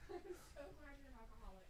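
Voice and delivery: fast, laughing sarcasm; mock it while laughing; laughing mockery. Mocking Punk's speech with laugh.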